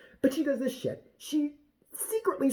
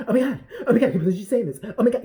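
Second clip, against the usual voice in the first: mock freaking out; 3 semitones higher, 5 dB louder, much faster than usual. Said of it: "He's freaking out in live time".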